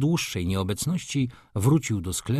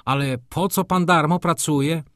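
higher-pitched, meek query; humble question; 5 semitones higher than usual. A narrator's reading. Gutmorgen questioning the furious Rzecki, humbly. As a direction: ask it naively and humbly. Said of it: "wtrącił z pokorą Gutmorgen".

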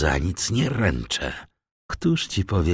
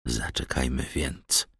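low, very soft murmur; whispering; 5 semitones lower, 8 dB quieter than usual. A narrator's reading. Frightened Caderousse yielding to Danglars, whispering. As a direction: give in under your breath. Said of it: "szepnął".

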